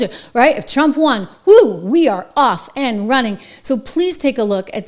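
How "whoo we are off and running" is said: loud, slow triumphant whoo; real cheer; whoop of excitement. Real, not acted. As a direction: celebrate like the race just started. Cheering Trump win.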